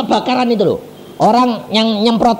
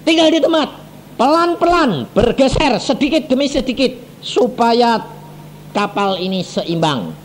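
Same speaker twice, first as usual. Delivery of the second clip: raised, stern command over a microphone; a hint of a stern regent shouting; mock shouted order; 4 semitones higher than usual. Regent orders passengers over the microphone, raised and stern. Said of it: "bupatinya teriak-teriak pakai mikrofon".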